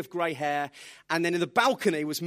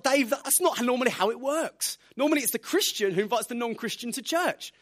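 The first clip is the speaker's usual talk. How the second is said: higher, disbelieving protest; incredulous; 5 semitones higher, 3 dB louder than usual. Retold or imitated. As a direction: sound amazed at the request. Incredulous reply to friend.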